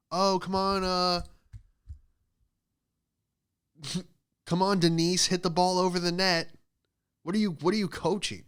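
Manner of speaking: high, loud hammed-up coach barking at players; mock yelling coach. Volleyball coach yelling at player Denise, hammed-up and loud. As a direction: play the pushy volleyball coach. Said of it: "how this guy was as a head coach".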